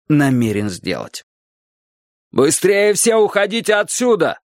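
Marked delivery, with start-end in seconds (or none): 2.3-4.4 higher, contained shout of warning; urgent cry. A narrator's reading. Alli warning children about the crane, urgent cry. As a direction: cry out to get everyone away. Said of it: "закричала Алли".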